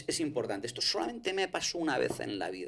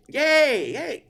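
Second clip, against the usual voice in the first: high, loud cry for help; retold scream; 13 semitones higher, 8 dB louder than usual. Recalling being trapped in a metal box, high screaming cries. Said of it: "Y yo gritaba, decía".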